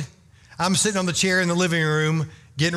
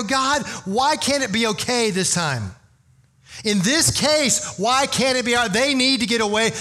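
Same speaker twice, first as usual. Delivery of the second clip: higher-pitched, urgent appeal; pleading with God; 5 semitones higher than usual. Acted. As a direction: plead upward on someone else's behalf. Acted plea to God.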